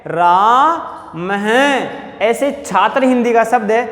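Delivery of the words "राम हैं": राम हैं with a long breathy ह echo after राम; visarga ending. Shown as a demonstration. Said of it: "क्या बोलेंगे".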